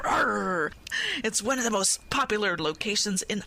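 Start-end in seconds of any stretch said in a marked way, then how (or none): 0.1-0.7 pirate growl. Acted. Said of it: "Just a little too many R's".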